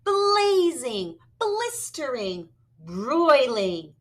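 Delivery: high, emphatic list; heated description. Acted. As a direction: stress each hot word. Dinosaur describes heat.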